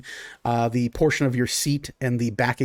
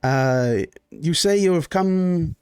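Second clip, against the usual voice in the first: lightly voiced genteel Baron. GM as the Baron greeting his guests: lightly voiced genteel host.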